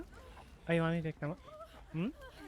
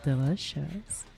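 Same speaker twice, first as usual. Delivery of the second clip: slow, savoring ASMR murmur; slow it down and savor each word like an ASMR video; lingering ASMR taste-test voice; much slower than usual. Shown as a demonstration. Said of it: "How's that sound?".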